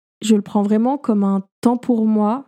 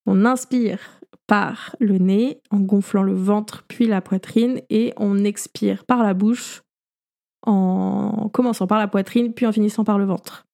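guided breathing. Shown as a demonstration. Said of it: "faites-le en même temps".

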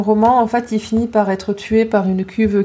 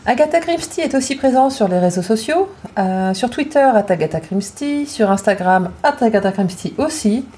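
receptionist voice. Shown as a demonstration. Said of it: "prends ta petite voix d'hôtesse d'accueil".

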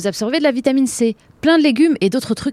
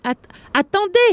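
urgent call; 9 semitones higher than usual. Acted. Door shoved, she begs entry.

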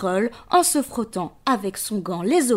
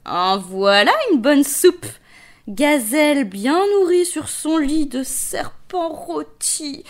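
greedy lion voice; 4 semitones higher than usual. Acted. Lion relishes his meal.

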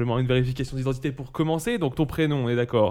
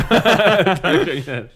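lent et plus aigu, dans un éclat de rire; traîne les mots en pouffant; en riant; 6 semitones higher, 7 dB louder, much slower than usual. Real, not acted. Teasing repeat, laughing. (t'es un criminel, dit en riant)

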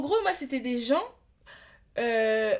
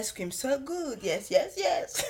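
ASMR girl impression; 2 semitones higher, slower than usual. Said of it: "Comme la go, là".

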